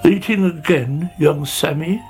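storybook snail tutting at a youngster; sighing reproach. Acted. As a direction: sigh it out in mild disapproval. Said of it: "he sighed".

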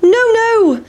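very high squeaky refusal; sing-song cheeky no; pancake refusing. A narrator's reading. Pancake taunting the chasers, squeaky refusal. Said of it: "said the big pancake".

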